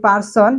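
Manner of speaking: 'পারসন' with unaspirated p; wrong pronunciation. Shown as a demonstration. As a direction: say 'পারসন' the local way, hard p. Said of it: "it's a wrong pronunciation". (ভুল উচ্চারণে 'পারসন')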